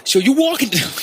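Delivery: high-pitched, hammed-up New York accent; big mock New York voice. Shown as a demonstration. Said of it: "Can you be a little bit more New York".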